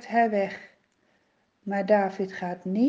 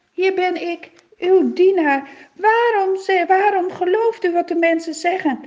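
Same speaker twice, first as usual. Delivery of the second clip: calling out loud; 2 semitones higher, 6 dB louder than usual. Acted. David calls loudly from the hilltop to king Saul. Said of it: "heel hard te roepen".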